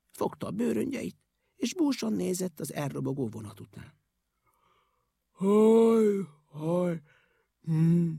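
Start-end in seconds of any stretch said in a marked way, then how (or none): 5.3-8.1 sad sighing moans; dejected sighs; sighing groans. A narrator's reading. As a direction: sigh heavily. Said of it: "sóhajtozott".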